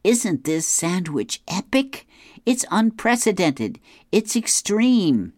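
high, loud, slow gushing hype; excited Dagwood. Retold or imitated. Dagwood showing Gus his sandwich, high gushing hype. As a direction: gush over the sandwich like a TV hype man. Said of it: "Dagwood says".

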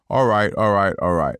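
lightly voiced laid-back all right, all right; Matthew McConaughey drawl. Meditation narrator mimicking the boss's catchphrase, lightly imitated. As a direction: toss it off like the famous actor catchphrase, loosely imitated.

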